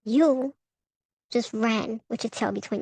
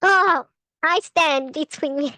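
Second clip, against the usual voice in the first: laughing through words; 4 semitones higher, 4 dB louder, slower than usual. Real, not acted. Reading card, laughing.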